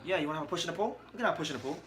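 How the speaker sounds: a hint of a Nottingham challenge; Carl Froch. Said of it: "try to do a Carl Froch impression".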